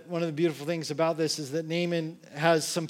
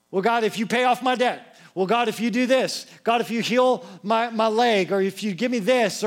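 mock pleading; 4 semitones higher, 4 dB louder than usual. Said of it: "bargaining with God".

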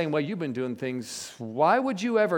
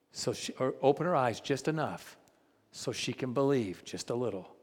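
quiet prayer; 5 semitones lower, 8 dB quieter than usual. Retold or imitated. Man praying over the woman's shoulder, soft and pleading. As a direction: murmur the prayer with long pauses.

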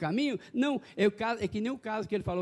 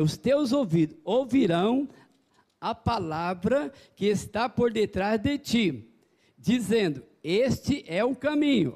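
slow, deliberate, louder Scripture reading; 3 dB louder, slower than usual. Shown as a demonstration. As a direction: read each word very slowly. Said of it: "vou ler bem devagarzinho".

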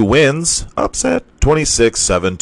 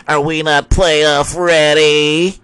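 angry rhetorical question; 6 semitones higher, slower than usual. Real, not acted. Ranting at naysayers.

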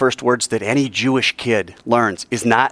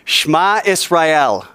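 call and response; 6 semitones higher, 4 dB louder, much slower than usual. Shown as a demonstration. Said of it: "say these words after me".

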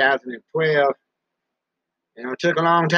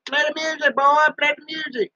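imitated viewer; 9 semitones higher than usual. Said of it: "I know what you're thinking".

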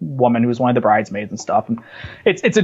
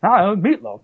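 shouted quote; 12 semitones higher than usual. Retold or imitated. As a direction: shout it at your brother mid-game. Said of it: "I'll just be like".

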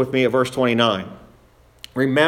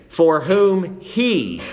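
"he" drawn out slowly, then falling; stress on HE; 3 semitones higher, much slower than usual. Shown as a demonstration. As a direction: land hard on "he" and stretch it. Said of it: "notice the use of that personal pronoun he".

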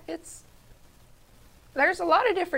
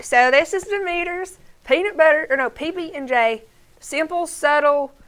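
put-on country accent; 2 semitones higher, 3 dB louder than usual. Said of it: "read the ingredients again in a country voice".

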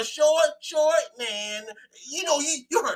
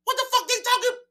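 mock disbelief; 11 semitones higher, 4 dB louder than usual. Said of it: "I'm like".

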